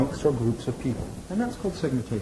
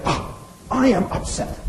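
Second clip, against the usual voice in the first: slow, breathy, higher imitation of her upset; mock upset reporter; 6 semitones higher, slower than usual. Imitating the upset reporter on the phone, slow and breathy. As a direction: play her distress, a bit hammed-up. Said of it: "It's like".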